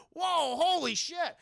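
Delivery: high, drawn-out astonished cry; mock amazement, stretched out; acted shock. Housemates startled by a man bursting through the window, shocked.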